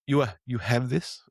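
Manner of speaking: put-on slow, halting Russian-accented question; light Russian accent impression; imitated Russian accent. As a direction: mimic a Russian woman asking for pliers. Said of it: "I'm gonna assume Russian".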